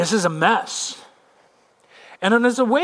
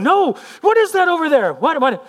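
high, loud, mounting panic; urgent questions tumbling out; alarmed insistence; 10 semitones higher, 5 dB louder than usual. Acted. Fisherman to his busy rowing mate, alarmed.

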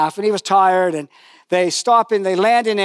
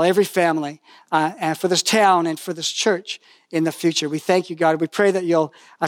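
earnest prayer spoken to God; pastor's prayer. Acted. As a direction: lead the church gently in prayer. Leads the congregation in prayer.

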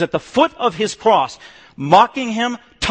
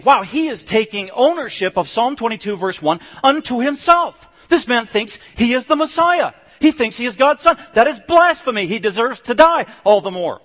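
higher and louder, outraged accusation; indignant outcry; 6 semitones higher, 4 dB louder than usual. Retold or imitated. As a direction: cry blasphemy at him like an outraged accuser. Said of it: "That's how they responded".

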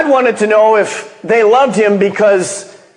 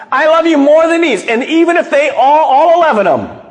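boastful, laughing; 9 semitones higher, faster than usual. Retold or imitated. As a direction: crow it out, laughing at the idea. Peter boasting of his loyalty.

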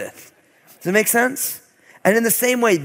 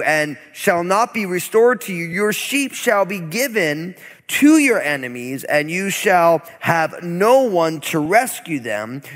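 steady, slightly raised public reading of scripture. Acted. Preacher reads Deuteronomy verses to congregation, solemn scripture reading. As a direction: read the curses out with weight.

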